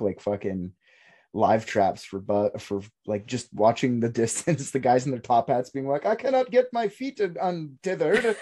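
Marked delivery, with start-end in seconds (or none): 6.1-8.4 put-on high, strained Boston accent; a hammy Boston gent stuck fast. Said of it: "It's a really good Boston accent".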